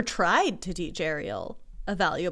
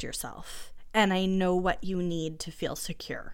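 Moana's tender words; 2 semitones lower, 5 dB quieter than usual. Retold or imitated. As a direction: quietly comfort someone who is hurting. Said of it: "when Moana says".

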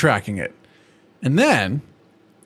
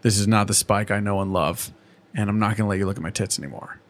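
lower, softer scolding Twilight; disappointed Twilight; 4 semitones lower, 5 dB quieter than usual. Acted. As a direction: let her down gently but firmly, voice dropped low. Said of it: "this is where Twilight goes".

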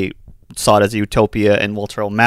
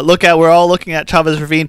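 lightly voiced announcer impression; a hint of a sportscaster, pitched a little higher; half-hearted impression, voice slightly lifted; Vin Scully; 4 semitones higher, 4 dB louder than usual. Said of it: "this is my worst Vin Scully impression".

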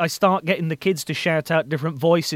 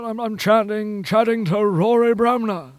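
The speaker; 4 semitones higher than usual. Acted. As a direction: chat away as a calming local radio host. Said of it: "give him a bit more".

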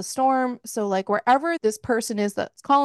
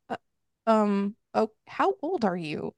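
hesitant, halting retold question; acting out puzzled hesitation; confused. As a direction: stumble into the question, mildly confused. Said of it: "And he's confused".

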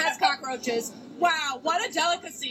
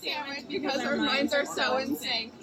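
vocal fry. Acted. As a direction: drag the words into a creak. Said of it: "More, more vocal fry".

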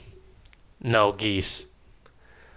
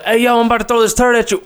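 cocky monkey; 6 semitones higher, much faster than usual. Retold or imitated. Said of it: "they'd be like".

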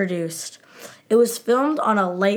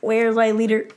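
bee impression; faster than usual. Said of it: "Bee impression".

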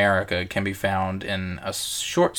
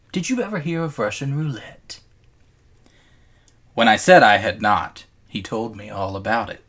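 measured reading with deliberate pauses; story narration. A narrator's reading. Host reading a Russian roulette story to cohost, measured narration. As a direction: read the tale aloud, letting phrases hang. Reads a short-story excerpt aloud.

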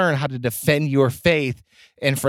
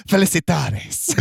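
Nacho Libre shout; 3 semitones higher, slower than usual. Retold or imitated. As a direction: bellow it mid-laugh. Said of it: "slams it down into this bowl of water and goes".

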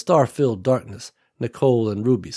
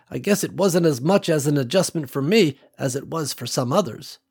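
lightly voiced older country woman, a bit higher; old farm woman Ruby; 4 semitones higher than usual. Ruby telling Nicole about her land, lightly voiced old woman. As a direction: let a hint of an old rancher widow in.

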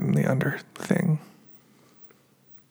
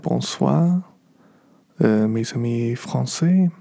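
foreign accent in French; slower than usual. Real, not acted. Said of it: "I do know a little bit about that".

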